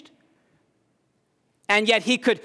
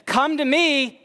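voice of God; 8 semitones higher, slower than usual. Retold or imitated. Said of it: "He says".

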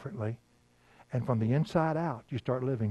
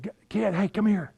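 higher, bright call across the house; calling the kids; 8 semitones higher than usual. Retold or imitated. Father calling his little kids over, raised call. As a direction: call out to the children in the next room.

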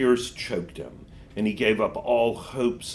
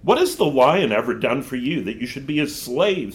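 witch voice; 4 semitones higher, 5 dB louder than usual. Acted. Witch challenges Diggory.

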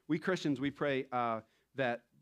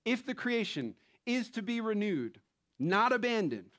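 quote read aloud; 8 semitones higher, 4 dB louder than usual. Shown as a demonstration. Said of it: "Ready? Here we go".

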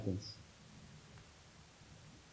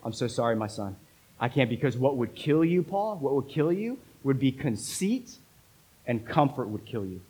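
sorrowful; 2 semitones lower than usual. Acted. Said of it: "with probably sorrow in his voice".

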